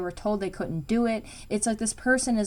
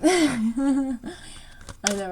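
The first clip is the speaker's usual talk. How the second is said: giggling through the words; laughing; 5 semitones higher than usual. Real, not acted. Tarot reader to her viewers, laughing. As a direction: laugh as you agree with yourself. Laughing while agreeing with self.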